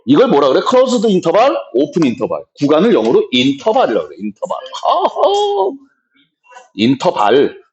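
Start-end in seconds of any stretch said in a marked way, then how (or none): 4.8-5.7 much higher, drawn-out "hah-oh"; high-pitched exclamation. Real, not acted. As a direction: let out a high, playful cry. Exclamação aguda após dizer interval.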